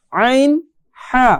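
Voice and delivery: আইন and হা pressed from the middle of the throat. Shown as a demonstration. Teacher shows students the pressed mid-throat letters. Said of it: "একটু চাপ দিয়ে পড়ার চেষ্টা করেন".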